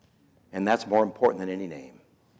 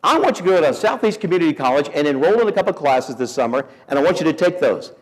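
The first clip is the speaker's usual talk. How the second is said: higher, louder mock wife, fast; wife's firm instructions; 4 semitones higher, 4 dB louder, faster than usual. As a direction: push him into classes, hammed-up. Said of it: "She says".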